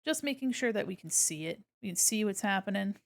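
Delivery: normal talking voice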